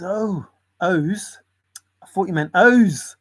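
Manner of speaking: 轻微模仿店主; mock shopkeeper. Shopkeeper voice in retold sketch.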